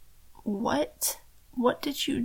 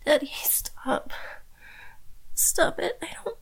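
frightened plea. Acted. Captive pleading with captor.

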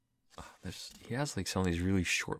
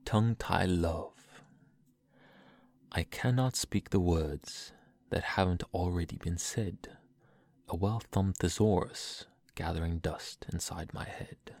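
poem reading; slower than usual. Acted. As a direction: read it like a tender poem. Reads a poem aloud.

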